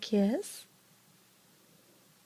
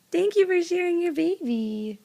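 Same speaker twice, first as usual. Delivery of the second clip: sweet thanks; 5 semitones higher, 4 dB louder than usual. Real, not acted.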